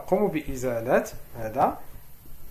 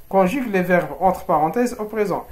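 slow dictation reading; 3 semitones higher, 6 dB louder, slower than usual. Shown as a demonstration. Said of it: "يعني صرف الأفعال في المضارع".

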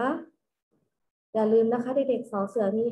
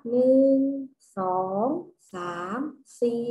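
counting aloud. Shown as a demonstration. Teacher counting strawberries with the children, spaced-out counting aloud. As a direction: count out one by one, spaced, pitch stepping down. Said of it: "นับสตรอเบอรี่กันนะ".

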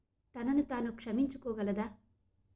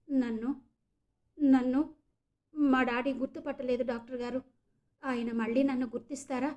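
voice choked with tears. Acted. Meghana begging the doctor, voice choked with tears. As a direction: plead through a choking throat. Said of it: "గద్గద స్వరంతో అంది మేఘన".

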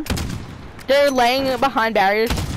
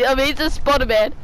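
mock Italian-accented "amazing Spider-Man"; imitated Italian accent. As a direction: mimic a friend's Italian accent. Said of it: "This is how he says it with his Italian accent".

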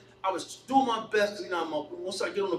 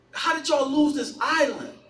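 raised pitch, exasperated disbelief; incredulous question; 4 semitones higher, 4 dB louder than usual. Retold or imitated. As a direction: put it to your people in disbelief. Repeats disbelief at his people.

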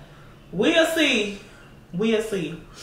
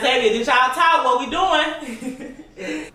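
lightly acted prying follower, pitched up; imagined nosy fan; 6 semitones higher, slower than usual. Follower asking about her relationship, playfully nosy. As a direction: ask it higher, drawing out the end. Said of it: "Be like".

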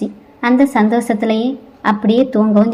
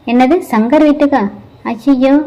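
panicked; 2 semitones higher than usual. Acted. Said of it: "பதட்டமும் அவனை கவ்விக்கிட்டு".

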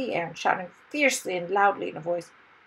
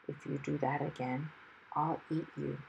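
low, hushed threat; fierce whisper; 4 semitones lower, 9 dB quieter than usual. A narrator's reading. Dragon into hero's ear after being pricked, fierce whisper. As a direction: threaten softly, close to the ear. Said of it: "he whispered fiercely".

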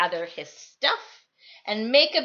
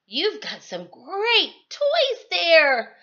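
gentle Trevor; 6 semitones higher, 4 dB louder, slower than usual. Acted. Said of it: "poor Trevor would say".

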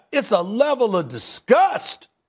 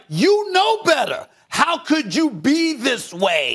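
disappointed fans; 6 semitones higher, slower than usual. Retold or imitated. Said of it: "they're like".

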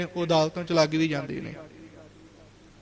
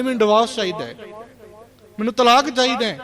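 acted daughter demanding, raised pitch and volume; mock insistent outburst; 3 semitones higher, 4 dB louder than usual. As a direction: demand it louder and higher the second time.

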